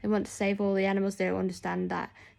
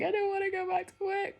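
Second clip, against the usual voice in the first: put-on much higher, childlike whine; whiny reluctant self; 12 semitones higher than usual. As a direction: whine like a kid who won't go back. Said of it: "I was like".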